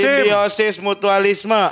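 Simbiosis mutualisme said slowly, every syllable clear; slow careful term. Shown as a demonstration. After spelling it out together, saying Simbiosis mutualisme slowly. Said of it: "Lu aja dah, sim".

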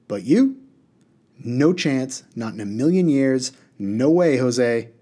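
a lightly voiced brash genie, rattling off refusals; cocky genie. Water genie tells Haroon no chance, lightly voiced brash refusal. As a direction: brush the boy off with a showman's swagger.

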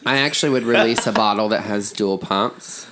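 talking while chewing gum. Real, not acted. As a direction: chew gum as you speak. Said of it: "Stop chewing your gum in the microphone".

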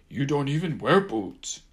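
high, loud mocking mimic; mocking imitation. A narrator's reading. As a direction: parrot him back, teasing. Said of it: "Gumbaby mocked".

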